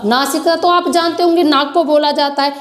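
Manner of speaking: ordinary delivery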